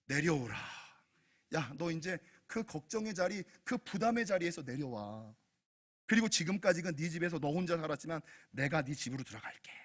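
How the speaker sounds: low, gentle voice of Jesus; tender reassurance. Acted. Voices Jesus calling Zacchaeus down.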